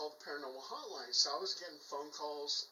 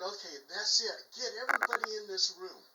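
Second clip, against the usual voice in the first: urgent order; 4 semitones higher, 4 dB louder than usual. Retold or imitated. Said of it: "I said".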